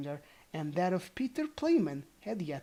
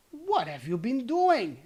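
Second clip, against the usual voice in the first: put-on louder, higher call to the boys; 6 semitones higher, 6 dB louder than usual. Old goblin calls out to his sons.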